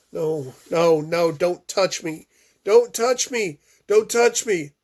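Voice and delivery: high, loud panicked refusal; terrified child. Acted. Boy shrieking at the policewoman not to touch him.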